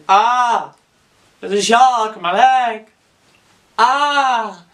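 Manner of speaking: hammed-up cries of pain; high, melodramatic yelling; mock screaming. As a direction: wail loudly as if a shark has your leg. Acting out man bitten by shark.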